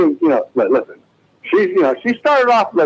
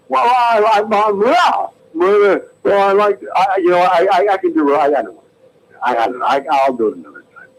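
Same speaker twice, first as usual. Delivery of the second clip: Jimmy Stewart; 3 semitones higher than usual. Acted. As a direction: hem and haw bashfully. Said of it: "here's my impression of Jimmy Stewart".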